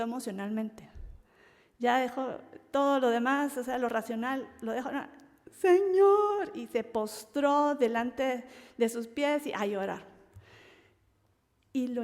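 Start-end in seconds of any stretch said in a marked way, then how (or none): 5.6-6.5 Mary's anguished plea. Retold or imitated. Mary falls weeping at Jesus' feet.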